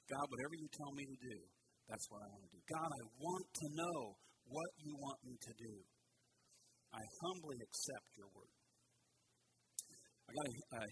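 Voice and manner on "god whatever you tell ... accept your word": humble prayer. Pretend. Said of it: "A humble attitude says".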